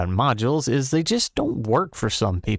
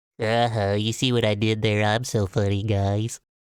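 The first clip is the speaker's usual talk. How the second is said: mocking, put-on nerdy voice. Speaking to viewers right after a joke, in a nerdy voice. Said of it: "(nerdy voice)".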